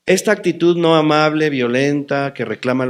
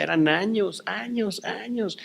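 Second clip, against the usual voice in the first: weary repetition; 7 semitones higher, 7 dB quieter, slower than usual. Retold or imitated. Stretching years of frustration.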